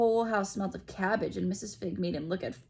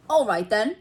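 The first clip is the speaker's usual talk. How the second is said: put-on grudging boy; 3 semitones higher, 9 dB louder than usual. A narrator's reading. Dudley accepts grudgingly.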